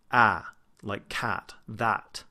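slow "Ah", the vowel of "cat" and "That"; open ah vowel. Shown as a demonstration. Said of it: "that's the ah sound".

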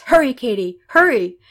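acted urgent shout; urging on. A narrator's reading. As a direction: rush her along to safety. Renee urges Katy on.

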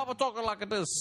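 light mock robot voice. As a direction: talk like a stiff robot. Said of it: "like an Asian fucking robot".

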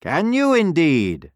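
slow, high, drawn-out fox reply. A narrator's reading. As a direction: savour the question as a fox. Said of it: "said the fox".

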